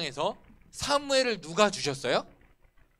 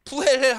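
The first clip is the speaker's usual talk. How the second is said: mocking laugh; 6 semitones higher, 8 dB louder than usual. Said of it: "하면서 막 비웃은 거예요".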